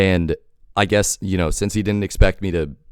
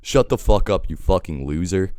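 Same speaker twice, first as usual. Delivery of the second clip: laughing retort; 4 semitones higher than usual. Retold or imitated. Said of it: "I laugh and I say".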